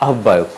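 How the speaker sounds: আহ্বায়ক with a hard b, "ahobbayok"; doubled b in আহ্বায়ক; common mispronunciation. Shown as a demonstration. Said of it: "উচ্চারণ সাধারণত করা হয়".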